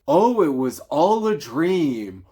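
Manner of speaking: slow, lightly put-on storybook voice for the tired twist ending; mock cliché reveal. Mocking the adaptations' ending, a put-on cliché voice. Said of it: "there is some sort of".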